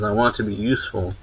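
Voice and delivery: fast, sure completion after the pause; quick settled answer; decided finish. Retold or imitated. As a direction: blurt it out once decided. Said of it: "pauses for a moment and says".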